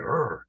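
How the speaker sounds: short mock growl of displeasure; grumpy growl. Describing the ashram's sour overseer, grumpy growl. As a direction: imitate a man who is never sweet. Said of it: "this guy's never sweet".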